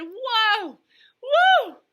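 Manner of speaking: high, loud whoa and woo; big whooping exhale; catching breath. A narrator's reading. Girl catching her breath after a shock, loud high whoops. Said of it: "tried to catch my breath".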